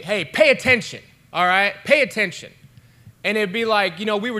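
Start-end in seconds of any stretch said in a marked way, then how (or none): 0.0-2.5 stern teacher. Retold or imitated. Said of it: "he would always say".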